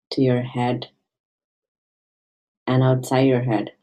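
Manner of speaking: gentle meditation guide with long pauses; guided meditation. Acted. Meditation guide invites listeners to find their childlike playfulness, gentle guiding voice. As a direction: ease listeners inward, leaving space between phrases.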